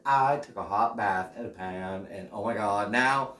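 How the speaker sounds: hammed-up stuffing bragging about its bath; silly stuffing voice. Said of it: "it's gonna be like".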